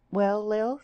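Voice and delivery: high voice rising at the end; insistent, rising girlish query; pleading question. A narrator's reading. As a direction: prompt a friend hopefully for news. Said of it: "She said it pleadingly, insistently".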